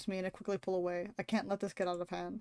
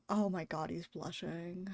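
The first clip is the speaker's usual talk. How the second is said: much softer, slow swoon over "he's blushing"; swooning murmur; 2 semitones lower, 6 dB quieter, slower than usual. Real, not acted. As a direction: melt into the words.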